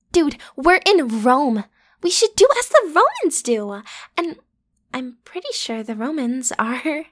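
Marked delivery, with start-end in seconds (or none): 0.1-3.8 eager urging. Acted. Urging him to go out.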